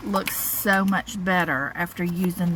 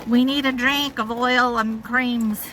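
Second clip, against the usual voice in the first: high, loud, slow alien plea; 6 semitones higher, 5 dB louder than usual. Pretend. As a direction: beg like a little alien creature. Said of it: "that sounded like an alien".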